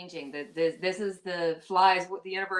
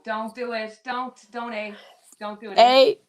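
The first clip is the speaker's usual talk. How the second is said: loud, laughing plea not to say it; half-laughing cry of don't; laughing protest; 3 semitones higher, 10 dB louder than usual. Real, not acted. Begging the host not to do the Canadian thing, loud and laughing. Teasing friend about accent word.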